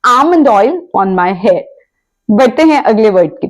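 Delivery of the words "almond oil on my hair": very slow, deliberate example sentence; slow, careful English demo; slow model sentence. Shown as a demonstration. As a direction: spell it out word by word for learners. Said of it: "तो आप कहेंगे".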